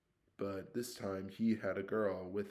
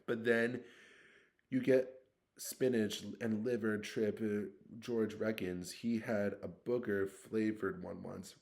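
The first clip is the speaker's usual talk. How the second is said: put-on brisk boyish warning, slightly raised; lightly voiced Ron. Ron warns Harry about the beans, lightly voiced.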